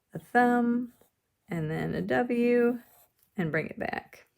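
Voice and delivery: each step apart, with pauses; walk the kids through it step by step; slow step by step. Shown as a demonstration.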